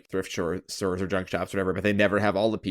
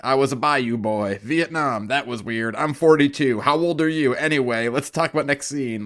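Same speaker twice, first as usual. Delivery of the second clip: mock backstory dump, a bit higher and louder; rushed exposition; 3 semitones higher, 3 dB louder than usual. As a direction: parody blurting out one fact after another. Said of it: "they did it so quick".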